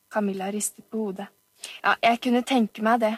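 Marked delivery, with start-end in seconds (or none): 1.8-3.1 self-important. Acted. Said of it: "sa Oliver viktig".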